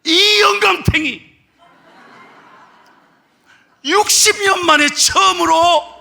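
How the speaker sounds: put-on light tease of her old husband; old wife's outburst. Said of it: "그러니까 하는 말이".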